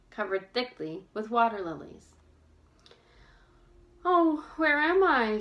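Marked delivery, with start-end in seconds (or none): 4.1-5.4 high, slow, desperate call into the woods; lost and pleading, voice rising; desperate cry. A narrator's reading. Bess lost by the pond, crying out desperately. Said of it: "she asked herself desperately".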